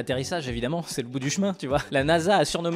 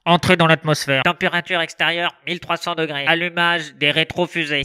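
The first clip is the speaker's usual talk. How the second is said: inside a helmet; 5 dB louder than usual. Retold or imitated. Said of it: "le monsieur qui parle dans son casque".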